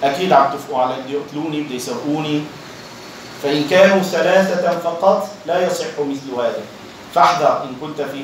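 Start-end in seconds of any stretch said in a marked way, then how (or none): 0.0-2.4 fast, low, suspicious grumbling, sinking softer at the end; imitating a suspicious paranoid man. The left-out third man voicing his paranoia, fast and muttered. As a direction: mutter it like someone sure they're plotting against him. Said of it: "هذا بقلبه بقول".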